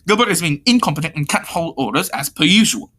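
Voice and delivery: firmer take on an annoyed complainer; lightly voiced, exasperated bossy character; corrected character voice. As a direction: complain firmly in the character's proper voice. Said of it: "sorry, wrong voice".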